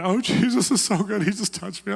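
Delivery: high, loud retelling of joyful awe; awed praise. Retold or imitated. Converted couple telling the preacher, high joyful awe. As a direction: gush like someone freshly touched. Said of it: "they're, like, going".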